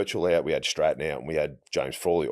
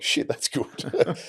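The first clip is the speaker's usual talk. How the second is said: barely voiced, slow whisper of disbelief; whispered aside; 10 semitones higher, much slower than usual. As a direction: breathe it out slowly, almost silent. Stunned inner reaction to coach.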